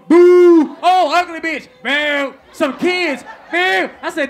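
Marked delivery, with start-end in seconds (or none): 0.1-1.7 loud booing shout from the crowd. Retold or imitated. 1.8-3.2 loud booing shout from the crowd. Retold or imitated. 3.5-3.9 loud booing shout from the crowd. Retold or imitated.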